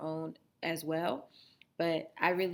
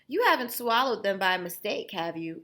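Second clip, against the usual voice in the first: Mom asking; 6 dB louder than usual. Acted. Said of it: "asked Mom".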